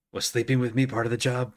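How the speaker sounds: snake voice. Acted. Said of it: "I'm giving him snake voice".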